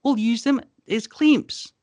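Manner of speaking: talking pig. Acted. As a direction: play a smug little pig. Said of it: "and they say".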